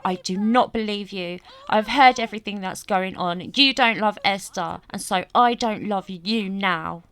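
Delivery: loud, emphatic telling-off, acted; going off at him. Acted child turning on her dad over Esther, going off at him. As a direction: lay into him with punched words. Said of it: "she's really going off at him".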